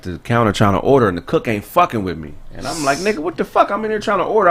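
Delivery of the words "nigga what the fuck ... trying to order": retold annoyance. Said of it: "I'm getting mad".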